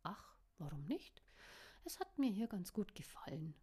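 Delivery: teasing hush with a grin; mischievous whisper. Acted. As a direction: whisper it playfully. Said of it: "Sie grinste schelmisch".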